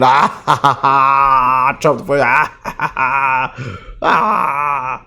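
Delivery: gloating, taunting ha-ha-ha at the hosts; mocking laugh. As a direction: laugh at them like you just won. Gloating over hosts' meltdown.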